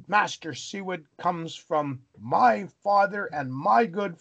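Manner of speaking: rising to a furious "how dare you"; indignant rebuke. Retold or imitated. Board member rebukes the headmaster.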